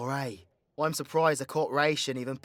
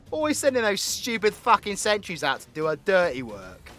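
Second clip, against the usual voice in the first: loud, raised-pitch contempt; scornful griping; 5 semitones higher, 5 dB louder than usual. Acted. V rants about the Lieutenant General, loud and scornful. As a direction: gripe loudly about a useless superior.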